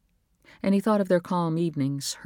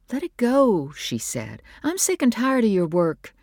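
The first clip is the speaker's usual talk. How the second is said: higher, louder, fed-up; exasperated wife; 7 semitones higher, 3 dB louder than usual. A narrator's reading. Wife fed up with husband's work, exasperated. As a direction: snap with weariness. Nora's voice in the story.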